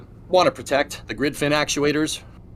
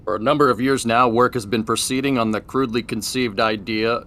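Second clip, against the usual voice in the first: transatlantic announcer voice. Pretend. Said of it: "the transatlantic announcer voice".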